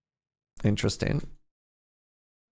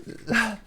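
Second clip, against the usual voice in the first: soft high giggle; short laugh; 12 semitones higher, 5 dB quieter than usual. Real, not acted. Storyteller still tickled by the story, soft giggle. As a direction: let a small giggle escape.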